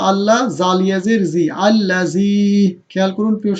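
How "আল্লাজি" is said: আল্লাজি with a drawn-out final "zee"; madd lengthening. Shown as a demonstration. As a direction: hold the long ee at the end of আল্লাজি. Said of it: "ইয়া মাদ".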